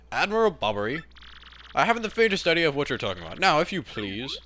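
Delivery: lightly voiced stuffy English seadog; a hint of a dismissive old admiral; huffy old British sailor. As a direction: deny it with mock-British indignation. Voices old sailor denying identity.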